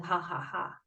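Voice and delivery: half-hearted spoken ha-ha-ha; fake laugh. Shown as a demonstration. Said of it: "fake it till you make it".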